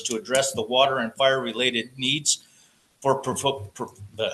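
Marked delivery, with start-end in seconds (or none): 3.0-4.3 stuttering on the word; nervous stammer, words catching. Real, not acted. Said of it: "I'm still stuttering".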